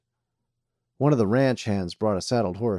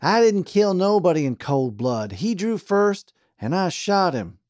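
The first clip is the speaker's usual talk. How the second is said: high, loud angry snarl; 9 semitones higher, 6 dB louder than usual. A narrator's reading. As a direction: snarl it defensively. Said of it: "Charlie snarled".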